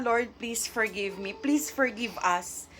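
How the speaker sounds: slow, soft plea to God; hushed prayer. Retold or imitated. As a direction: pray it quietly and slowly, humbled. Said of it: "mapapasabi ka na lang na".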